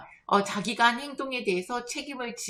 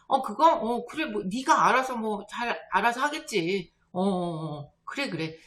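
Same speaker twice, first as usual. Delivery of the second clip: half-hearted, evasive agreement; noncommittal brush-off. Retold or imitated. Friend with arms folded backing out, noncommittal brush-off. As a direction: back out with vague okays. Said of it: "약간은 이렇게 발을 빼는".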